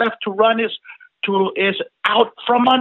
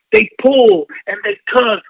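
louder; 2 semitones higher, 6 dB louder than usual. Acted. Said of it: "repeated tug line".

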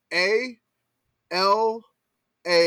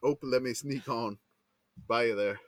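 Midwestern; 5 semitones lower, 3 dB quieter than usual. Acted. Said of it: "The Midwest in me".

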